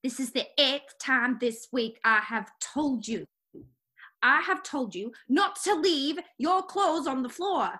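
put-on slow, scolding wife in an English accent; British accent. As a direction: spell out the complaint slowly, English housewife style. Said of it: "I like your accent".

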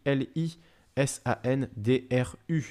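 slow, careful spelling of letters; spelled out. Shown as a demonstration. Host helping viewers write the name, spelled out slowly. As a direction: give each letter its own space. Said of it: "si vous voulez l'écrire correctement".

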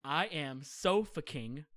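slow, spaced-out incantation; reciting a spell. Retold or imitated. Uncle teaching a child a spell, slow incantation. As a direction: pronounce it in slow, deliberate chunks. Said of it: "the spell is".

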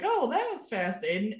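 high-pitched mock surprise, dropping on the name; breezy door greeting. Girlfriend greeting who she thinks is back, high and breezy. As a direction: call it out high and lightly. Voicing Carrie answering the door.

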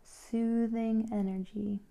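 unhurried instructions with long pauses; calm, spaced-out meditation leading; guided meditation. Real, not acted. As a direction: guide a listener gently into relaxation.

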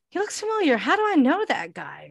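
high, swooping wondering voice; acted-out curious thought; puzzled musing. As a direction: muse aloud as if trying to place someone. Acting out her own puzzled thought.

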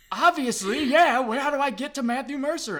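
high, loud, hurried plea; exasperated urgency. Retold or imitated. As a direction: demand directions in a comic fluster. Retold panic at being lost.

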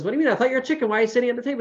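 high, mock puzzlement; puzzled prince. Prince questioning the farmer, high and puzzled. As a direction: act baffled. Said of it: "And the prince says".

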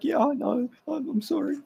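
scolded henchman apologizes to his boss, meek high voice. Retold or imitated. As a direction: squeak out a sorry like a scolded lackey. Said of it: "And then he's like".

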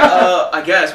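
laughing, unsure little shrug of a voice; laughing meek give-in. Retold or imitated. Coworker caving to the manager, laughing and meek. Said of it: "she's like".

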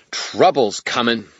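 slow, loud, high fairy gravity; tiny creature being as grave as it can; grave little fairy. A narrator's reading. Fairy warns the wizard of trouble, with tiny gravity. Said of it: "with all the gravity that six inches of fluff".

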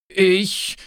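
halting, slow and trembling with fear; hesitant, broken-up words; frightened stammer. A narrator's reading. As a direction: stammer out an excuse to retreat. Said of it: "stammelte er".

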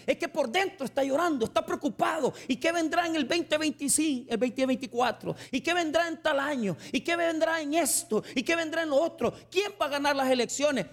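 subiendo el tono, más agudo y apurado; predicación agitada. Acted. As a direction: imitando al preocupado con voz alta y rápida. Predica con fuerza creciente. (pastor imita al preocupado por el futuro, agitado y agudo)

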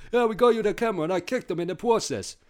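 high, loud goon voice; proud dim henchman. Acted. Henchman boasting to jaguar boss about kicking, high goofy voice. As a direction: brag dopily to your boss. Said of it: "They're like one of those".

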